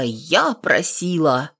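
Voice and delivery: bold. Acted. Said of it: "сказала смело".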